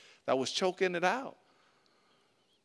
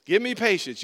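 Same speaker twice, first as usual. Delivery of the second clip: praying for patience through teeth; 4 semitones higher, 8 dB louder than usual. Retold or imitated. Mock prayer through teeth.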